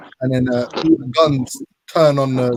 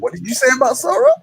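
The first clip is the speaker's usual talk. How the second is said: mock angry challenge; 10 semitones higher, 4 dB louder, faster than usual. Retold threat to a mate.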